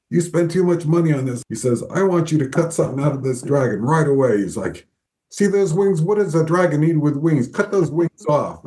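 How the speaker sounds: retold tirade, pitched well up and pushy; mock angry boss. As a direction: imitate the furious boss demanding cuts. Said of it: "really pissed off and says".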